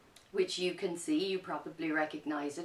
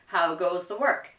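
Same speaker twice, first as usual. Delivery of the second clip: farmer calling; 8 dB louder than usual. Acted. Farmer's repeated demand.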